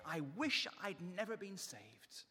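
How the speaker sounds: slow, drawn-out complaining start; slow mock moan. Preacher voicing Israelites' first complaint, slow mock moan. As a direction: ease into the grumbling wish, slowly. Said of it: "three times they're saying".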